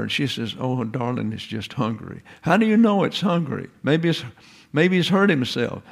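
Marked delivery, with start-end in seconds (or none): 0.6-2.2 softer, lightly voiced reassurance; gently calm him down; soothing mother. Mother to father about the crying baby, mildly soothing. 2.4-5.8 higher-pitched, questioning worry; doubting father. Acted. Father questions mother about the screaming baby, doubtful and higher.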